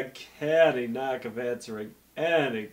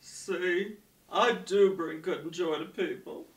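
gushing; 9 semitones higher than usual. Acted. Gushing over story.

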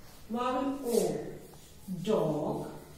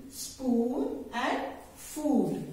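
slow drill; much slower than usual. Shown as a demonstration. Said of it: "teacher drilling the word list".

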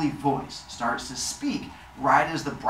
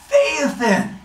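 loud, raised god's call; booming call; 12 semitones higher, 6 dB louder than usual. Acted. Helios looks down at his son, booming call. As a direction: call the name out grandly, pitched high.

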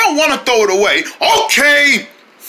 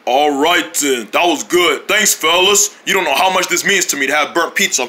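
lower, smooth handsome voice; 4 semitones lower than usual. Acted. Snowman Junior thanking friends after the pizza, in a handsome voice. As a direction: drop the cute squeak, sound suave. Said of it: "changed his cute voice to a handsome voice".

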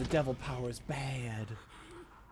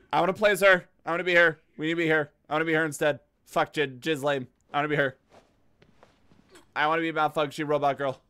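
excited; 6 dB louder, faster than usual. Real, not acted. Excited about new character.

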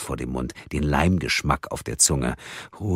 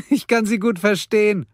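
high, louder laughing reply; 5 dB louder than usual. Acted. Karen laughing to Mia about the wife, high laughing voice. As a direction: laugh it out, amused. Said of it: "lachte die rotblonde Frau".

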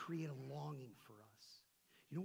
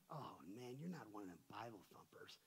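retold laborer; 8 semitones lower, 7 dB quieter than usual. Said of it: "He was my laborer. He's like".

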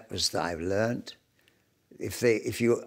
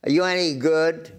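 higher, louder blunt challenge; challenging; 8 semitones higher, 5 dB louder than usual. Retold or imitated. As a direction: throw it at her bluntly. Producer's challenge retold.

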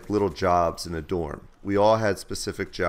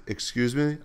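higher, rising retort; instructor's challenging query; 6 semitones higher than usual. Retold or imitated. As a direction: question it as the affronted instructor. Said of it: "She's like".

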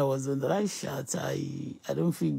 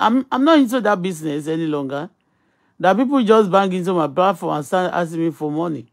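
louder, heated telling-off; angry rant; 9 dB louder than usual. Real, not acted. Host ranting at beggars on her platform, angry rant. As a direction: vent your annoyance at them.

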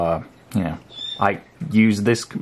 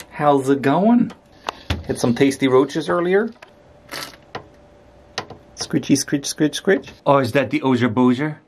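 pet talk; 4 semitones higher than usual. Real, not acted. Talking to the pet.

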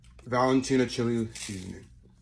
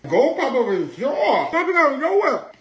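laughing; 12 semitones higher, 6 dB louder than usual. Real, not acted. Reacting to heat, laughing.

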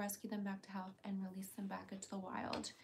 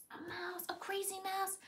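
pet-talk; 10 semitones higher than usual. Real, not acted. Toy reveal, high.

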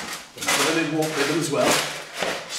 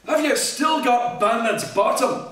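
lightly voiced monkey; 6 semitones higher than usual. Monkey character voice.

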